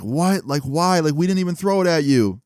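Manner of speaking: high-pitched mock incredulity; indignant protest. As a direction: whine of unfairness, imitating a schoolboy. Henry retold protesting detention.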